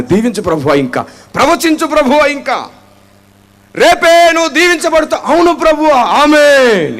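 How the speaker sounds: hammed-up excited amens and prophecy; eager mock worshipper. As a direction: act the hungry believer egging the preacher on. Mocking eager congregant and prophecy.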